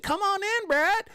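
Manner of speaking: very high, singsong fake welcome; mock inviting. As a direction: imitate a falsely friendly invitation. Acts out Gary's false welcome.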